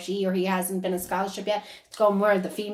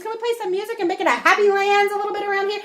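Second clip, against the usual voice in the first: pleading joke; 11 semitones higher, 5 dB louder, faster than usual. Retold or imitated. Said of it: "He goes".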